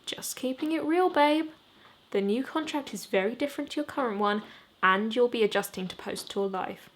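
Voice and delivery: put-on a brisk woman talking down to the boys; manager's voice.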